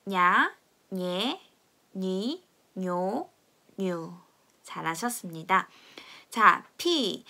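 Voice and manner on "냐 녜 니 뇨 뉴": 냐, 녜, 니, 뇨 stretched out very slowly; slow read-along. Shown as a demonstration. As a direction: drag each syllable for the class to copy. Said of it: "다 같이 한번 읽어보겠습니다". (아주 천천히 끊어서 따라 읽기)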